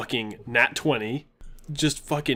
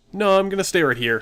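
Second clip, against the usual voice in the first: higher, louder, quick defiant refusal; 7 semitones higher, 5 dB louder, faster than usual. Retold or imitated. Player refusing to leave the bedroom, said defiantly. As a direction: dig in your heels and refuse. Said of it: "He just says defiantly".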